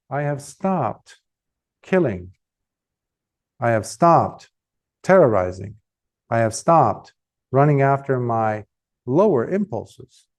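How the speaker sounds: low, measured pronouncement with pauses; calm solemn answer. Retold or imitated. Buddha answering his pursuer, low calm solemnity. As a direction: answer with composed gravity, pitch dropped.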